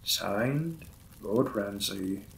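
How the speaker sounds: courteous lord apologizing to his new wife; lightly voiced lord's role, close to own voice; Victorian lord. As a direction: play the polite, slightly shy vampire lord.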